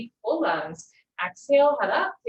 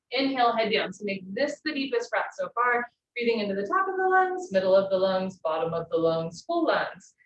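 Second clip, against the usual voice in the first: louder, driving instructor voice calling the breaths; projected yoga cues; 3 dB louder than usual. Acted. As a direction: call the breathing cues out over the room.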